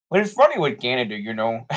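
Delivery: half-hearted put-on Canadian accent; attempted Canadian accent. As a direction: try a Canadian accent briefly. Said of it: "I'm trying to do that accent".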